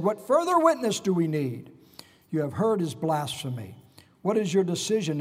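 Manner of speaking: a touch of outrage in the quote; mild retold rage. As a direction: quote it forcefully, with restrained anger. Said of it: "Can't you feel the rage".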